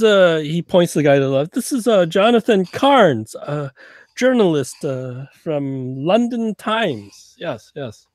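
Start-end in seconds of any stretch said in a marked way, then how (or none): 1.5-8.1 put-on slurred, halting, higher drunk Russian voice; lightly played drunk Russian; drunk Russian agent. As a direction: stumble through it like a tipsy spy.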